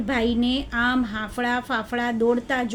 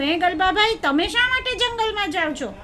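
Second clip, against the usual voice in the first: higher-pitched storybook question; inquisitive elephant; 6 semitones higher than usual. Acted. Elephant asks the jackal why he goes, inquisitive. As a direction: ask it high, with curiosity.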